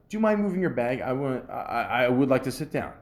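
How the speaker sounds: courteous ask with a light tone; demonstrating the nice way to ask for a seat; polite request. Shown as a demonstration. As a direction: say it nicely, no attitude. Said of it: "Just say it in a nice way".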